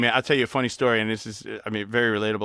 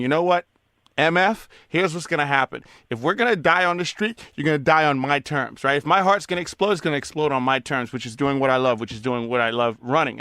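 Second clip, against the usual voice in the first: defiant self-talk. Retold or imitated. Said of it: "I was saying".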